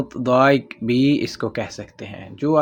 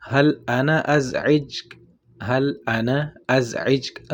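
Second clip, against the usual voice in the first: slow, careful question; slow demo; slower than usual. Shown as a demonstration. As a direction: model it slowly. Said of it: "اگر آپ نے کہنا ہے". (آہستہ سوالیہ مثال)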